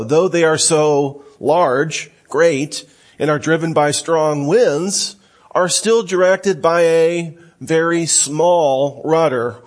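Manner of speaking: slow, emphatic scripture reading. Real, not acted. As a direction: stretch it out slowly, weighing each word.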